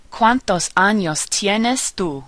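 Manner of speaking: slow, measured Spanish model sentence; slow teacher's rhyme for learners to copy; pronunciation demo. Shown as a demonstration. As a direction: spell out each vowel sound slowly. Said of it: "Back to our rhyme".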